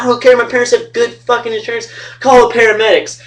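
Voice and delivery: imitating a demanding friend in pain. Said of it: "He's like".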